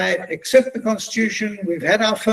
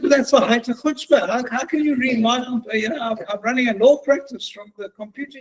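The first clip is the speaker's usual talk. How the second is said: outrage; 4 semitones higher than usual. Retold or imitated. Outraged at her reading his laptop.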